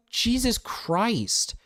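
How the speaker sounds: a stunned laugh through the words; shocked laugh. Real, not acted. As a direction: laugh it out slowly in disbelief.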